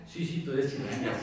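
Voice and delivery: amused, laughing reply. Real, not acted. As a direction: laugh while agreeing. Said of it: "Yo soy chilanga".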